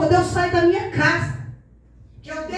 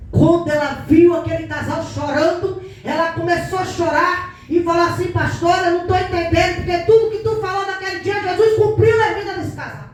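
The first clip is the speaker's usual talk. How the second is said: louder, impassioned retelling; raised-voice church testimony; fervent testimony; 5 dB louder than usual. Retold or imitated. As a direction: preach the testimony with rising force. Testimony rising to fervent preaching.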